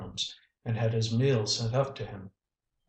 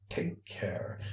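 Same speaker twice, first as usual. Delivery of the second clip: breathed, savage warning whisper; 7 dB quieter than usual. A narrator's reading. Basil threatening his brother into his ear, whispered. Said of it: "breathed Basil savagely in his ear".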